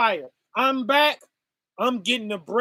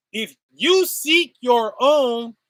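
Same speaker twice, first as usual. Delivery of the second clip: slow, with each word of "If you seek your own" weighted; slowed-down, louder restatement; slow emphatic repeat; 4 dB louder, slower than usual. Shown as a demonstration. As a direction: drag the line out slowly to make it land.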